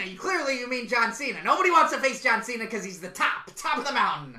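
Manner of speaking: lightly voiced wrestler; a hint of wrestling promo hype; Seth Rollins. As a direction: insist like a wrestling star. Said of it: "Seth Rollins is coming".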